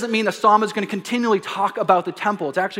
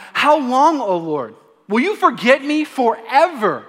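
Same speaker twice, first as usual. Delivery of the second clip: mild cry out; 4 semitones higher, 4 dB louder than usual. Retold or imitated. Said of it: "David cried out".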